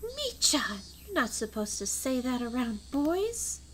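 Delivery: high, drawn-out mock reproach; scandalised scolding. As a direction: play a shocked girl, high-pitched and slow. Scolding a character in the story.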